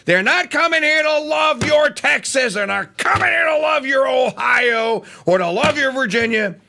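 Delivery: shouting about loving your state. Real, not acted. Rising rant against immigrants.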